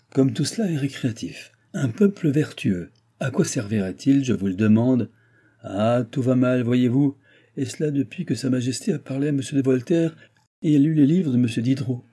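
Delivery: lightly voiced baron, scornful and exasperated; grumbling old baron. Baron complaining to his guest about modern reading, exasperated. Baron deplores the new ideas.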